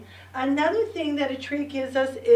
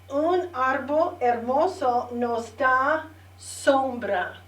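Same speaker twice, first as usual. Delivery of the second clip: slow, careful model sentence for the class. Shown as a demonstration. Teacher models the sentence for the class, slow and clear. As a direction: lay each word out slowly so they can follow. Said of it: "Say it with me one more time".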